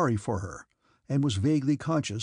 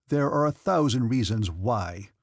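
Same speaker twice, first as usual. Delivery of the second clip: weighty stress on the final "why"; emphasis on why. A narrator's reading. Count hints at his reasons to the princess, stressing "why". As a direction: lean meaningfully on the word "why" at the end. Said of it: "laying special emphasis on the why".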